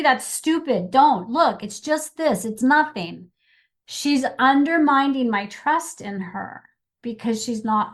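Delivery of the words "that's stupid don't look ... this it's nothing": dismissive scolding. Retold or imitated. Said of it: "and she goes".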